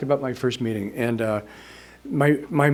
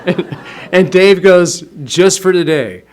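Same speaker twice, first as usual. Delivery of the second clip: laughing while quoting Dave; chuckling as he tells it; laughing through words; 5 semitones higher, 8 dB louder, slower than usual. Real, not acted.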